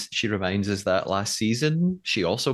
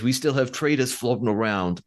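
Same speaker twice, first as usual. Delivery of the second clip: lightly put-on C T accent; imitated C T accent. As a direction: do a mild take on C T's accent. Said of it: "that was my C T accent again".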